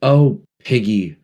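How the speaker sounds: slow, stricken sigh; low and stricken. A narrator's reading. Ralph stopping Piggy, slow and stricken. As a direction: let it fall heavily, slowly. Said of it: "Ralph's voice, low and stricken".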